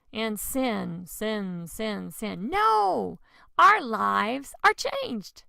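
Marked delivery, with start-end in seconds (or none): 2.5-5.4 loud, high No then slow stressed line; firm preacher's declaration; emphatic no. Acted. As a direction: refuse sin, then declare it slowly. Rejecting sin emphatically.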